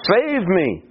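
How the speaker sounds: mild retold cry for rescue. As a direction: plead with a slightly lifted voice. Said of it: "he cries out again those same words".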